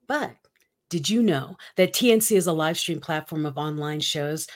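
smooth announcer read; radio voice. Acted. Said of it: "do you like my radio voice".

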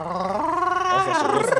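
high excited call to a teammate; excited cheer. Real, not acted. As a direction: cheer him on as he goes.

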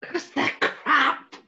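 high squealing laugh through the words; laughing tease. Real, not acted. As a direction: cackle while mocking the jokes. Teasing about bad jokes.

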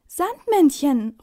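loud, slow surprised call; boy calling out to the Sandman. A narrator's reading. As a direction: shout his name across the shop. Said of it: "ruft Finn".

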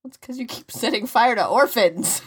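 loud, high mock scolding; exasperated outburst. Co-host accusing host of setting fire to orphans, exasperated outburst. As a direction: burst out with the accusation.

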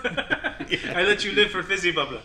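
put-on Indian accent. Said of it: "an Indian accent this time".

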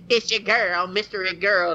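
bigger, brighter host intro; radio host intro. Shown as a demonstration. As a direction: sell the name like a show host. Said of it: "you can't just say".

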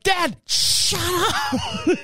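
high, very slow, laughing through it; laughing hush. Retold or imitated. Son laughing while hushing dad about chickens. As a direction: scold him while cracking up.

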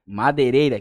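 overshooting the volume with headphones on; too loud, headphones on. Real, not acted. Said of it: "que eu tô com fone aqui".

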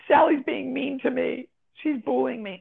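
a hint of a complaining schoolkid; child tattling. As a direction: play a child running to the teacher. Child reporting a classmate to teacher.

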